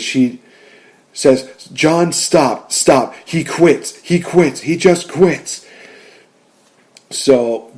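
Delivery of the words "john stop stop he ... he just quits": lightly acted urgent plea, pitched up; higher, insistent mock begging, last words slowed; Lana pleading. Fan retells the manager stopping the match, mild mock plea. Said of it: "she comes in and she intervenes".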